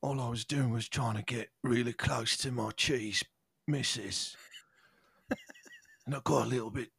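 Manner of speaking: mild sadness. Acted. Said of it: "Peter's very sad".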